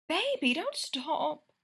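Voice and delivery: slow, high moaned plea; moaning. Acted. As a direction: moan the words slowly. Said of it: "Greta moaned".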